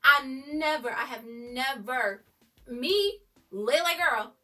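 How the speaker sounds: overwhelmed fan squealing over the line; excited gush. Real, not acted.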